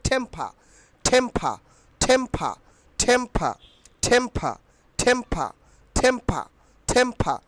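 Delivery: টেম্পা said as "thempha", word by word; teacher's repeated model of aspirated টেম্পা. Shown as a demonstration. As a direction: drill টেম্পা with a strong puff on T and P. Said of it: "এখন থেকে হবে".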